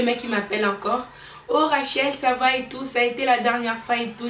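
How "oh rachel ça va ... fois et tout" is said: lightly voiced caller, pitched up a bit; mimicked caller. Man phones Rachel a week after the dinner, lightly mimicked caller. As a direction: put on a lightly chirpy caller's voice. Man's cheery phone call, retold.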